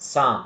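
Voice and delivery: psalm said sam, silent p; psalm with no p, just sam; correct psalm. Shown as a demonstration. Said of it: "We have to say". (psalm ಅನ್ನು ಸಾಮ್ ಎಂದು ಉಚ್ಚರಿಸಿ)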